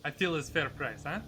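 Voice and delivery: lightly put-on Russian haggler; a hint of a Russian merchant; Russian accent. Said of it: "my happy Russian accent".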